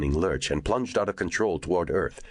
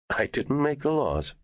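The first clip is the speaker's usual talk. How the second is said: defensive snap; 11 semitones higher than usual. A narrator's reading. Neenan snaps defensively.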